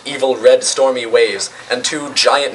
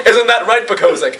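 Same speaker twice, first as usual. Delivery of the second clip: high-pitched address to a silent henchman; acted, raised villain voice; mad villain; 8 semitones higher than usual. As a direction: seek agreement like a lightly voiced madman. Mad villain addresses dead colleague.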